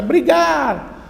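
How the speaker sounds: high, loud cry thrown back; shouted echo. Acted. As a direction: imitate a valley echo. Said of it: "Lá no fundo grita".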